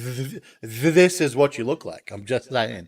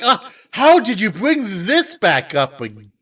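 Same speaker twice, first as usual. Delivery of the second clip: Kim Kardashian, shocked; 5 semitones higher than usual. Acted. Imagined celebrity reacting to an old topic returning, mock shocked. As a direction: play an aghast outburst with a raised voice. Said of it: "into shocked Kim Kardashian".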